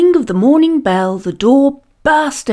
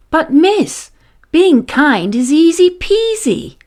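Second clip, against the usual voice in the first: put-on a little girl's voice, higher and brighter; piping child; 7 semitones higher than usual. A narrator's reading. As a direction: pipe up like a cheeky schoolgirl. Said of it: "piped up".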